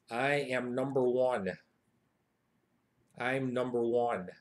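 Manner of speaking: slow, measured bragging; low-key swagger, drawn out; boastful declaration. Shown as a demonstration. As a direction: state it slowly, word by word. Translating boastful catchphrase.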